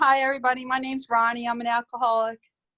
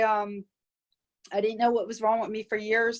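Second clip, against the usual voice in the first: usual speaking voice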